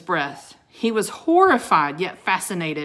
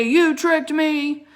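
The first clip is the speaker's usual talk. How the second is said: higher, louder and slow, building in rage; rising furious accusation; 9 semitones higher, 6 dB louder, slower than usual. Acted. Wizard repeating his accusation at the children, rising fury. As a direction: escalate the charge into a howl.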